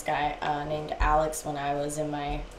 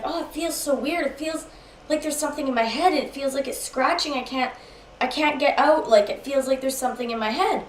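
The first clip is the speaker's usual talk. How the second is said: high, anxious imitation; retold freak-out; 7 semitones higher than usual. Boyfriend telling girlfriend about his head, panicky. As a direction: let the words tumble out high and troubled. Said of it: "after that little freak out".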